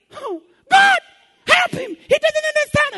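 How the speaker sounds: very high, loud pleading; high-pitched pious plea; pleading praying woman. Retold or imitated. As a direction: beg God to forgive him. Woman prays for neighbor.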